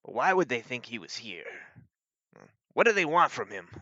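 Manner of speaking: a hint of a perplexed sheriff; puzzled sheriff. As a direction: wonder aloud as a troubled lawman. Sheriff wonders about the giants' demand.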